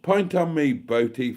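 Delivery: high, loud, gushing thanks to donors; beaming with real delight at each gift. Real, not acted. Streamer thanking viewers for their donations, delighted and loud.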